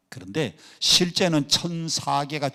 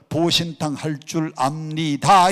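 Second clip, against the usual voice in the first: slow, drawn-out Seoul standard; deliberate Seoul formality; Seoul speech; 3 semitones higher, 4 dB louder than usual. Shown as a demonstration. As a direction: spell it out in full like a Seoul speaker. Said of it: "그럼 서울 사람들은".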